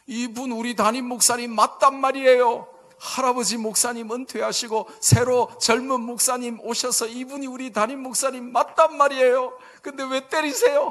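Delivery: high, loud protest, acted out; young people in uproar. Youths defending their pastor to the professor, retold uproar. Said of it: "우리 청년들이 난리가 난 거예요".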